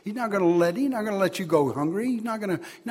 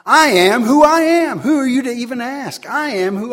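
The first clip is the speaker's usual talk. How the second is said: booming, commanding divine voice, louder; voice of God; 5 semitones higher, 8 dB louder than usual. Acted. Preacher speaks as God to questioners, booming. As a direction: proclaim it as God answering a challenge. Preacher voicing God's defiant reply.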